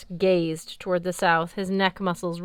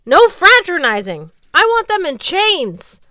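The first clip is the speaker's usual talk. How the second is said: high, loud commanding yell; 11 semitones higher, 12 dB louder than usual. Acted. Valkyrie captain yelling orders across the valley. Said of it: "Gunilla yelled".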